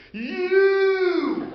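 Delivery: loud, high shout of you; accusing shout. Retold or imitated. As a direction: call out across the room, accusing. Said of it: "he says".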